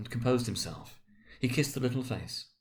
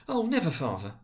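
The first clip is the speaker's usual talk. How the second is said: put-on earnest children's cry; 7 semitones higher than usual. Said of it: "cried they all".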